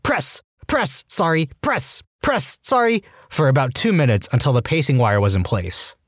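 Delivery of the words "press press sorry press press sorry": high, strained bursts with each push; urgent counting. Retold or imitated. Nurse pumping a conscious man's chest, high urgent bursts. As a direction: bark it out in rhythm with chest compressions. Doing CPR while patient watches.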